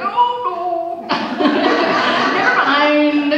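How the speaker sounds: high, loud, laughing mock panic. Pianist seeing Kyle walk in, laughing mock panic. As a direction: laugh it off as you shrink away. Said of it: "you're like".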